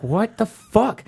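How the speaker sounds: slow mock bafflement; mock disbelief. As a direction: stretch out the confusion. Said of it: "And I'm like".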